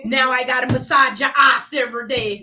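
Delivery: put-upon Caribbean nurse; comic Caribbean carer doing chores; Caribbean caregiver accent. Acted. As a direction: grumble at the patient in a Caribbean accent. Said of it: "permission to use this accent".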